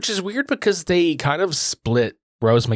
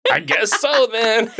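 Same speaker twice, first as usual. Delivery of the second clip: mock sarcastic shrug; 9 semitones higher, slower than usual. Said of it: "It's like".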